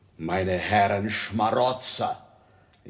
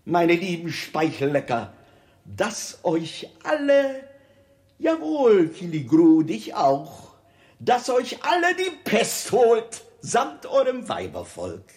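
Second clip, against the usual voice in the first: high, loud sarcastic curse; mock blessing curse; 8 semitones higher, 5 dB louder than usual. King mockingly wishes the plague on his courtiers, high and loud. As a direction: bless them sweetly, then damn them.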